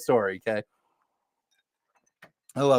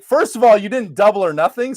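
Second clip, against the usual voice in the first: mock indignant; 4 semitones higher than usual. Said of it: "And I'm like".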